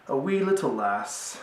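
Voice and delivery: lightly put-on Scottish lilt; a hint of jokey Scottish brogue; mock Scottish accent. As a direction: slip playfully into a Scottish voice. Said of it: "Why am I talking like that?".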